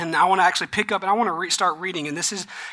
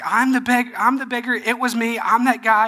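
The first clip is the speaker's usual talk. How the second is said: higher, eager retold insistence; excited insisting; 5 semitones higher than usual. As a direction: imitate a man eager to convince his questioners. Healed man acted insisting to doubters.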